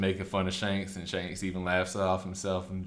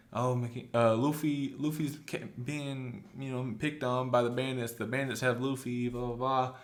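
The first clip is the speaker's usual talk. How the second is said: panicked report; 5 semitones higher than usual. Retold or imitated. Makino running to the mayor.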